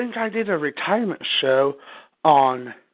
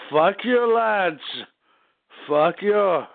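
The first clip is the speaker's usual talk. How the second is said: lightly put-on Irish accent; a hint of Irish lilt in a jokey curse. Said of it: "should I say in my Irish accent".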